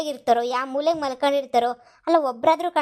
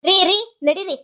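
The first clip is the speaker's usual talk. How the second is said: urgent calling; 6 semitones higher, 7 dB louder than usual. Acted. Urging husband to chase maids.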